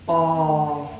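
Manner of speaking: "aw" said as a drawn-out open aw vowel; aw sound. Shown as a demonstration. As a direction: stretch the "aw" like in saw. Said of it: "A W makes that".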